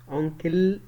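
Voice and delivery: أنكل ending in a long light "kill"; wrong final L. Shown as a demonstration. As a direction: say أنكل as "onkill", the mistaken way. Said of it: "لأ".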